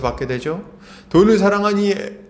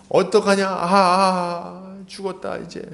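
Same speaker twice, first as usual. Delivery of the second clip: despairing dread; 2 semitones higher, much slower than usual. Acted. Preacher acts out believer facing trouble, despairing moan. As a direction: groan as if all is lost. Acts helpless cry of fear.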